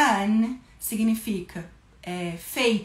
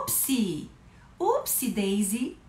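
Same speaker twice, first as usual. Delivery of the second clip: playful oops; slower than usual. Shown as a demonstration. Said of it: "playful oops".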